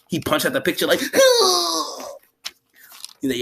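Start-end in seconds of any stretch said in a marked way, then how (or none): 1.2-2.1 imitated anguished cry. Imitates punching at the picture.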